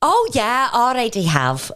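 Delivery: breezy put-on Liverpool accent; cheeky Scouse guest making herself at home; Sharon. Fake guest answers room offer, playful Scouse. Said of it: "somebody here from Liverpool".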